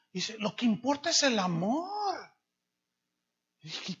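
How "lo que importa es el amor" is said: higher, earnest voicing of "Lo que importa es el amor"; lightly mocking "el amor" said earnestly; naive excuse. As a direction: mimic the young leader's innocent excuse. Worship leader's excuse quoted.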